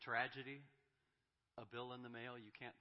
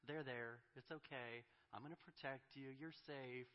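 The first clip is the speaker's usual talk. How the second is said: lightly voiced tender father; gentle comforting; 3 semitones higher than usual. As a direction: soothe a frightened child. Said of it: "he's going to say".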